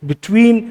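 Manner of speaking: slow "between" as be-TWEEN; second-syllable stress. Shown as a demonstration. Teacher lists examples, "between" stressed on its second syllable. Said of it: "second syllable पे stress आप use कर रहे हैं".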